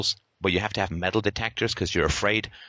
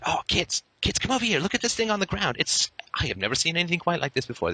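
put-on higher, feigned wonder to lure the kids; hammed-up awe at something on the ground; mock amazement; 6 semitones higher than usual. Luring kids with fake wonder.

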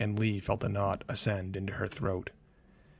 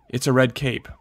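panicked; 4 semitones higher, 8 dB louder than usual. A narrator's reading. Panicked mother.

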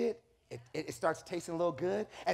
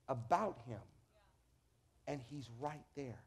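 hushed; 8 semitones lower, 9 dB quieter than usual. Real, not acted. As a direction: drop to a near hush for effect. Hushed emphasis.

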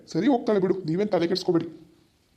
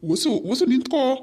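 calling after her; 7 semitones higher, 4 dB louder, slower than usual. Acted. Husband calls after leaving wife.

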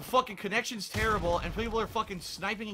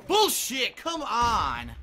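real exasperated yell; angry outburst; 2 semitones higher, 4 dB louder, much slower than usual. Real, not acted. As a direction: snap it out in real frustration. Angry reaction to game death.

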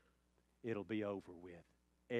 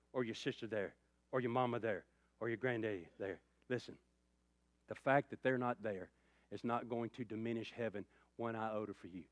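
normal talking voice

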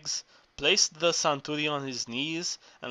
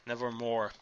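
the repeat falls away, much softer; fading echo; 4 semitones lower, 6 dB quieter than usual. A narrator's reading. Narrator echoing the refrain, fading and much softer. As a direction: let the second nevermore die off softly.

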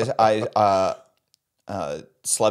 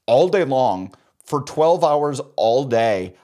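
Mike McCoy voice; 5 dB louder, slower than usual. Shown as a demonstration. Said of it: "I stayed in character as Mike McCoy".

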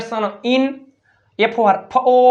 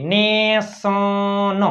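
slowly sounded out; much slower than usual. Shown as a demonstration. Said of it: "જો, ન એ".

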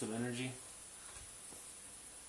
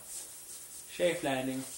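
stretched slow safe landing; slow drawn-out landing; much slower than usual. Pretend. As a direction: ease it down very slowly. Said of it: "even though I made a crash sound".

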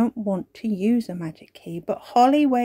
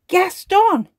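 curious; 12 semitones higher, 8 dB louder than usual. Acted. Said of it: "looking at the object curiously".

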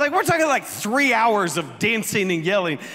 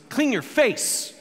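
slow, higher retort; trash-talking comeback; 5 semitones higher, slower than usual. Retold or imitated. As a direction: lightly imitate a cheeky kid's jab. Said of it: "Parker talks trash all the time".

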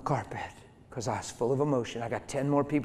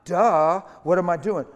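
louder, higher mock cry; loud mock duh; loud self-mocking duh; 4 semitones higher, 9 dB louder than usual. Real, not acted. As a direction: scold yourself for all to hear. Preacher mocks himself aloud.

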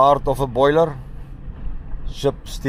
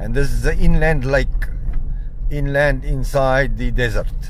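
jolted by bumps while driving; on a bumpy road. Real, not acted. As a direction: voice bouncing over rough ground. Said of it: "Sorry for the bumps".

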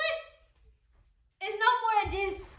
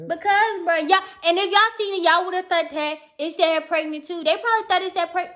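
raised, annoyed self-defence; mad; 5 dB louder than usual. Real, not acted. Girlfriend justifying her anger to the viewers, mad. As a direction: argue it loudly to the viewers. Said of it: "Why you so mad, though?".

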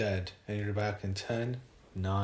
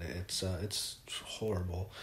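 whisper; 2 semitones lower, 5 dB quieter than usual. Real, not acted. Overcome retelling a tragic phone call.

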